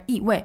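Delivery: 一 and 位 each dropping; two falling tones in a row on 一位; jilted double fourth tone. Shown as a demonstration. Teacher repeats the odd 一位, both syllables falling. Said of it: "It sounds a bit jilted".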